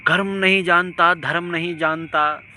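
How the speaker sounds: angry cry against people who know no dharma; indignant shout. Real, not acted. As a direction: throw it out like a rebuke. Indignant outburst at wrongdoers.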